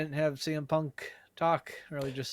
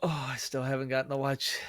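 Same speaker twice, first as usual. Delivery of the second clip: yawning. Real, not acted. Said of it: "the minute you were yawning".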